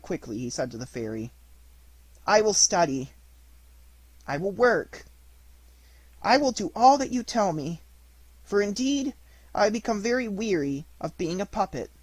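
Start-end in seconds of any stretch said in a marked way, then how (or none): 2.2-11.9 louder, higher determined promises; earnest vow. Acted. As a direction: swear it with all your heart.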